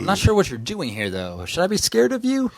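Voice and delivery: high, flirty German woman; woman's voice. Acted. Woman questions the stranger.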